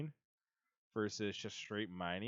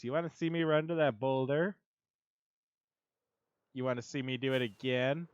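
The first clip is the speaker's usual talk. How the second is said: SpongeBob quote; 5 dB louder than usual. Retold or imitated. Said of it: "And SpongeBob goes".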